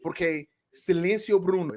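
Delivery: put-on playful Spanish sliding into Italian accent. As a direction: start Spanish, drift into Italian. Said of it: "I went from Spanish to Italian".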